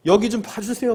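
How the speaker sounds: high-pitched call for attention; acted calling out. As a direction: call out high, begging to be noticed. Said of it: "막 이렇게 하지 않았겠어요?".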